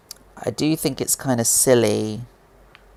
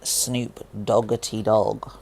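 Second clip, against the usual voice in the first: playful nickname; slower than usual. Pretend. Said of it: "Or as I call him".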